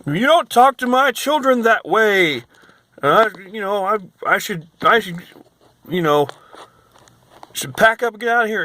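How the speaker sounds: high, loud mocking of the guest; imitating the angry guest to the clerk. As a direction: ham up her shrill outrage. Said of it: "she starts getting louder".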